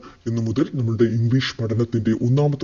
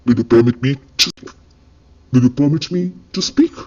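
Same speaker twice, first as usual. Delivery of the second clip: very slow, each word laid out for learners; slow teaching demo; much slower than usual. Shown as a demonstration. Teacher modelling an English phrase for Malayalam learners, very slow. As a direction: spell the phrase out slowly so students can copy it. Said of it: "എന്നെങ്ങനെ ഇംഗ്ലീഷിൽ ചോദിക്കും?".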